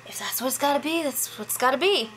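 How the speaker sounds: half-hearted, reluctant go-along. Retold or imitated. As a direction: imitate someone giving in without enthusiasm. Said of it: "she did say reluctantly".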